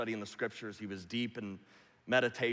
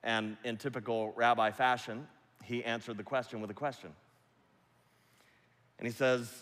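ordinary delivery

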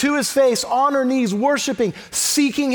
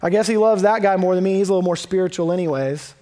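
mock defeat, quick and sinking lower; resigned giving up; 4 semitones lower, faster than usual. Someone giving up on unanswered prayer, mock resignation. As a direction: act out a shrugging, sorry-for-yourself surrender. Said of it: "doesn't just throw her hands up and go".

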